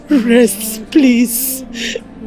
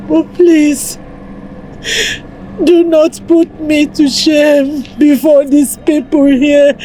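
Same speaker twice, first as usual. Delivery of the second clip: sobbing, begging her dead husband to forgive her, breaking into cries; tearful pleading. Acted. Wife begging her dead husband's body for forgiveness, crying. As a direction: plead through tears, voice cracking into wails.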